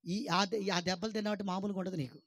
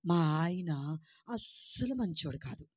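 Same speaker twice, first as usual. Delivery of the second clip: complaining wife; 3 semitones lower, much slower than usual. Retold or imitated. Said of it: "చాలామంది మాట్లాడే మాటలేంటో తెలుసా".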